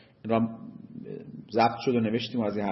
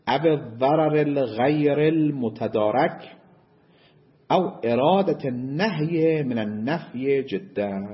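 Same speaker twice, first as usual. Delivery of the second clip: slow, measured reading of the Arabic passage; reciting Arabic text; slower than usual. Shown as a demonstration. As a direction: read the quoted text slowly, word by word. Reads the Arabic source text. (قرائت آهسته و شمرده متن عربی)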